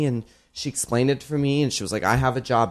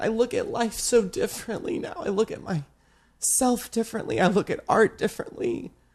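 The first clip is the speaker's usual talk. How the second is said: crying through the words, very high; 9 semitones higher than usual. Speaker thanks someone for changing everything for them, crying while talking. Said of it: "even though I'm crying".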